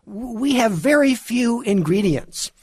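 mocking imitation of a put-on Spanish accent, pitched high; high, hammed-up fake Spanish accent. Commentator mocking a celebrity's TV cooking chat, fake Spanish accent. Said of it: "talking in this completely fake Spanish accent".

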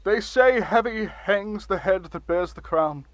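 grand, pompous speechmaking; blustery pompous mayor. Acted. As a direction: deliver it like a self-important ruler. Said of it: "Can you maybe not shout".

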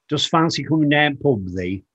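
imitating father's broad Yorkshire speech; father's Yorkshire dialect. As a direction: quote Dad in thick Yorkshire dialect. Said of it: "the way that he talked".

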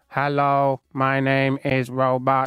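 slow mock robot monotone; deadpan the robot, slowly. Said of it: "Did it talk like that?".

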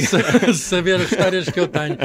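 laughing. Real, not acted. Guest laughs mid-joke.

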